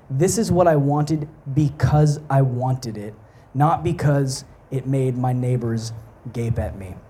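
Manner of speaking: deliberate read-aloud, pausing between phrases; reading a quotation. Real, not acted. Preacher reading the philosopher's explanation aloud, measured quote reading. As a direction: read it out measured, settling down at the close.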